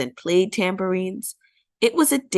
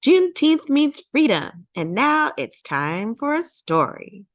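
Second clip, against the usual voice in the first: high, bright cheer that settles into storytelling; cheerful announcement; 7 semitones higher than usual. A narrator's reading. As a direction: lift the first words up high like a cheer. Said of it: "she lifted her hands and cheered".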